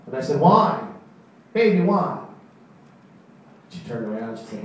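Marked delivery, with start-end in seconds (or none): 0.4-2.3 loud, high pleading; begging girlfriend loudly not to leave. Retold or imitated.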